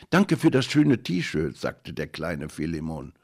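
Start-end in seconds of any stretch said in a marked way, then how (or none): 0.1-1.6 put-on high, slow piping little boy; squeaky voice. A narrator's reading. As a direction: thank him like a small shy child. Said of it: "mit piepsiger Stimme".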